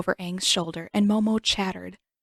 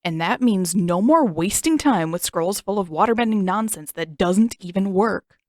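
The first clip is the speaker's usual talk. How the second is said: taunting jab; 6 dB louder than usual. Acted. Sokka glaring, taunting sister.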